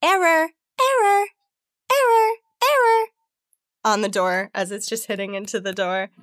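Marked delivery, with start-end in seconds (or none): 0.0-3.0 high, loud, repeating robot error; glitching robot. Acted. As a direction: stutter it out like a broken robot. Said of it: "And it says".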